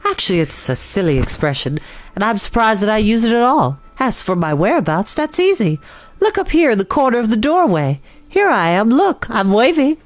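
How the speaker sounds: lightly voiced spider, cheerful greeting; Charlotte's voice. A narrator's reading. Charlotte the spider greets the pig Wilbur from the doorway, friendly.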